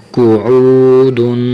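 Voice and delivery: قعودن with a heavy ق and a distinct throaty ع, read slowly; clear ain. Shown as a demonstration. Teacher sounding the ع in قعودن. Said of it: "عین کی آواز نکالنی ہے".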